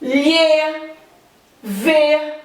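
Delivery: Lhe, vê each said alone with a closed e; closed vowels. Shown as a demonstration. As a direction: isolate Lhe and vê, keeping the e narrow and closed. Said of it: "a pronúncia é fechada".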